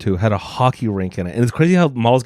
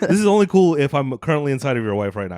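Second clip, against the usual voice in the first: laughing mock quote; 2 semitones higher than usual. Mock racist guy, laughing.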